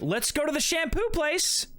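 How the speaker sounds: high, slow, singled-out words; mock-eager acceptance. Shaved customer agreeing to a shampoo, mock-eager. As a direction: play along with exaggerated willingness.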